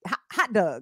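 "hot dog" slipping into "hot dug"; Baltimore accent. Shown as a demonstration. Host failing to say it standard, Baltimore accent. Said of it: "comes out is in Baltimorean".

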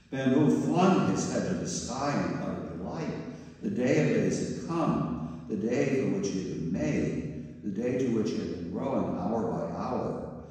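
eager storyteller's swell; rising delight. Acted. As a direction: build the thrill of the day of days. Narrates bamboo's delight.

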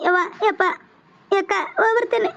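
tearful farewell. Acted. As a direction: say goodbye to an elder sister through tears. Tearful parting from elder sister. (ಅಳುತ್ತಾ ವಿದಾಯ)

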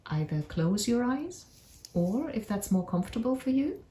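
unhurried meditation voice with long pauses; guided meditation. Acted. Narrator leads listeners on a magical forest walk, guided meditation. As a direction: guide listeners gently through an imagined journey, leaving space between phrases.

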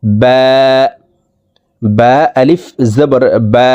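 বা held one beat, slow and careful; one alif length. Shown as a demonstration. Teacher showing the letter's length to viewers, slow and careful. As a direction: stretch the আ of বা by one count. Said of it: "এক আলিফ টেনে উচ্চারণ করতে হবে".

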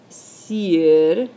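"sirvanlo" slow, long loud SIR, then van and lo; split into syllables. Shown as a demonstration. Teacher showing the accented syllable, "sirvanlo" broken up with SIR stressed. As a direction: stretch and stress SIR in "sirvanlo", pause after it. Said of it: "acento en el tercer sílabo".

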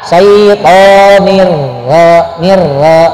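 slow "Syaitonir ro" with lips held still. Shown as a demonstration. Teacher corrects Fadil's lip movement, slow and steady. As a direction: say "ro" without pushing lips forward. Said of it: "Tapi tahan".

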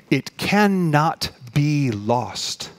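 very slow, each word set apart; emphatic assurance. Real, not acted. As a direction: drive it home word by word. Preacher drives the assurance home.

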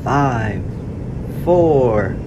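countdown rising from calm to a loud high launch cry; building countdown. Acted. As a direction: build it up number by number, then blast off.

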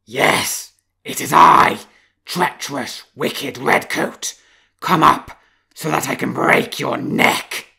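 very loud, slow roaring threat; savage threat. Acted. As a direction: roar death threats down the well. Wolf threatens fox.

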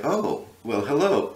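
lightly voiced charmer, rising on hello; a hint of courtly flirtation; Southern gentleman singer. The singer spotting Linda in the flashlight, Southern gentleman. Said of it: "complete Southern gentleman".

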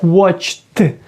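"watched" ending in a crisp separate t; ending read as T. Shown as a demonstration. Teacher showing learners how "watched" is read, t ending. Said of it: "Перше «ч», да? Watch. Читаємо як".

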